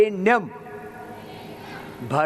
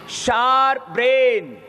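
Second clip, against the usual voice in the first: loud call out; 3 semitones higher, 3 dB louder, slower than usual. Acted. Class call and answer.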